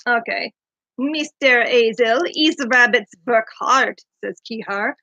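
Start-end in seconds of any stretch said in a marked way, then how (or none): 1.0-4.0 slow, broken-English bird voice, lightly done; a hint of Kihar's odd accent, slowed down. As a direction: read it as a foreign bird with halting grammar. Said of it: "your Kihar impression".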